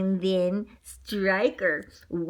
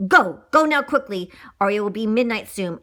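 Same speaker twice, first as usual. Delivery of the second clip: urgent command; 5 dB louder than usual. Acted. Witch urges wolf to hurry.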